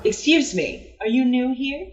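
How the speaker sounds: a stuffy official cat asking politely; prim cat inspector. Acted. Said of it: "and is like".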